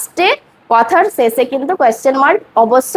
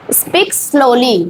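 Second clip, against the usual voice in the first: teacher modelling a phrase slowly; much slower than usual. Shown as a demonstration. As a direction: Speak slowly said slowly as one phrase. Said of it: "আস্তে আস্তে বলুন".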